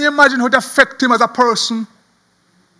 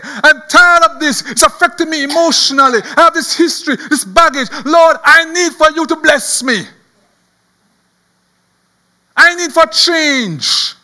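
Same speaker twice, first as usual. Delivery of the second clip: acted plea, raised and insistent; desperate crying out; 3 semitones higher than usual. Jabez begging the Lord for change, desperate. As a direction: plead to God as if worn down. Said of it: "He was so desperate".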